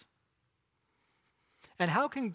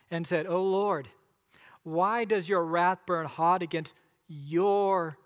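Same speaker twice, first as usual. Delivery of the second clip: scripture reading. Acted. Pastor reads Exodus aloud.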